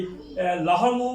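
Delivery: লাহমু stretched out very slowly, with the ল clearly sounded; slow careful demo. Shown as a demonstration. Teacher to students modelling the word slowly. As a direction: draw out লাহমু slowly, syllable by syllable. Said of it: "লামের উচ্চারিত হবে যে এই".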